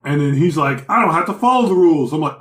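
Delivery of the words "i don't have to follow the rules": retold defiant outburst, raised a little; lively mock protest; mock defiance. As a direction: imitate someone refusing to obey. Quoting a defiant character in retelling.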